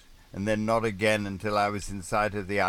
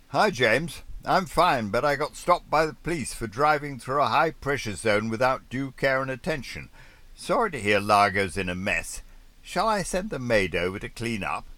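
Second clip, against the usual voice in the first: higher, louder posh radio reply; Piper Rising reply; 6 semitones higher, 5 dB louder than usual. Acted. Piper Rising answering James over the radio, higher and louder. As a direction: play the cheerful fellow sailor.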